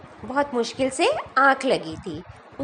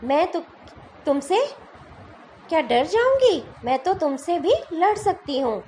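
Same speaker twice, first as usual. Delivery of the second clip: defiant challenge. Acted. Teacher voicing the cocky fly taunting the lion, defiant. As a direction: dare the lion to come at her.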